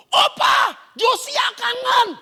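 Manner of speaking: put-on high, loud child greeting grandpa; excited child's shout. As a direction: call out gleefully, drawing out the words. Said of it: "Mereka teriak".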